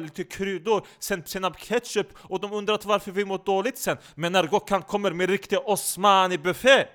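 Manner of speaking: animated, pleading complainer in broken Swedish; loud, insistent comic rant in accented Swedish; insistent Gökhan-like comic figure. Acted. Character scolding his podcast partner about food, animated and insistent.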